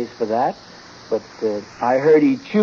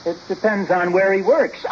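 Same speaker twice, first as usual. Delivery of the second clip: laughing at own joke; 3 semitones higher than usual. Acted. Ozzie delivers his own pun.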